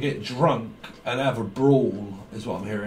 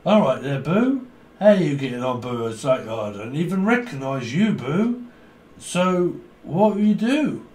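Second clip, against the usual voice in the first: put-on drunk greeting. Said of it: "Someone's getting hammered".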